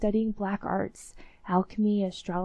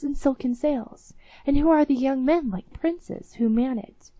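a mildly raised, wondering king, higher; excited king; 5 semitones higher, 6 dB louder than usual. Acted. King marvels at the ship and orders the captain fetched, mild excited call. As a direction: keep the king's amazed call going. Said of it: "he cried".

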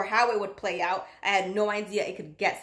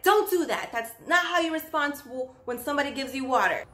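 stern scolding; 4 semitones higher than usual. Retold or imitated. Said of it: "infuriated me even more".

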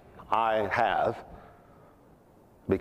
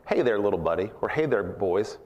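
put-on condescending, talking down to grown men like to kids; a light hint of mocking fondness, as if to little boys; patronizing; 2 semitones lower than usual. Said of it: "a patronizing remark".

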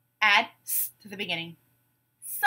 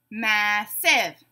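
"Massive" split in two, mass-ive; syllable by syllable; 3 dB louder than usual. Shown as a demonstration. Teacher giving a word to blend, said syllable by syllable. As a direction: break "Massive" into two separate beats. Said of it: "say the syllables in a word".

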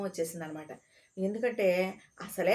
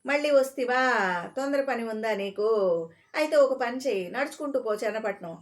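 scornful scolding. Acted. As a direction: taunt him for coming back. Station master scolding repeat asker.

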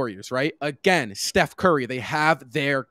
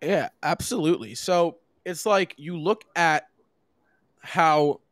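talking with gum in mouth; chewing gum; slower than usual. Real, not acted. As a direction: speak around a wad of chewing gum. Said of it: "I have gum in".

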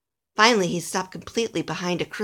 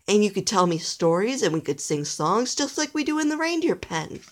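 higher, lively persuasion; inviting Nicholas; 4 semitones higher than usual. Acted. Nicholas asking Alistair to share the trip, inviting. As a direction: coax a little friend along.

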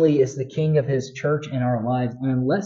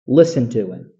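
voice from heaven; 5 dB louder than usual. Acted. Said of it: "A voice came out of the cloud saying".

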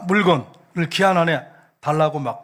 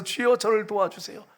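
understated imitation of a humble plea; pleading woman; 4 semitones higher than usual. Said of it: "절을 하면서 그냥 납작 엎드렸어요".

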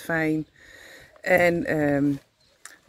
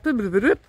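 scanner beep imitation; 3 semitones higher, faster than usual. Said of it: "En dan zegt het apparaat".

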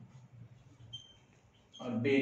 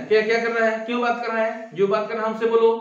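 raised, higher scolding teacher voice; acted scolding, louder and higher; 4 semitones higher, 5 dB louder than usual. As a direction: tell off the chatting students. Teacher scolds chatting class.

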